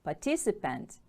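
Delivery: "Participant" with the stress on TIC; second-syllable stress. Shown as a demonstration. Teacher models the word for pupils, "Participant" stressed on TIC. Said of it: "Stress is on the second syllable".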